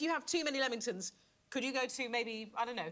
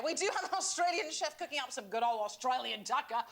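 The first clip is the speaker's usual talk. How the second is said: hammed-up fake Australian accent; terrible mock-Australian accent; offensive Australian accent. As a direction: put on a bad Australian twang. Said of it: "my offensive accent".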